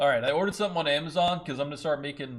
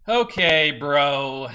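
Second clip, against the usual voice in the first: louder exasperated "okay, bro"; frustrated outburst; 2 semitones higher, 11 dB louder, much slower than usual. Real, not acted. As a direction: blurt it out, fed up with the chart.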